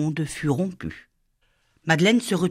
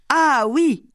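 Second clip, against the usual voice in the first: higher, louder burst of recognition; excited remembering; 9 semitones higher, 4 dB louder than usual. Acted. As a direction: shout it as the lyric comes back. Child suddenly remembers the words.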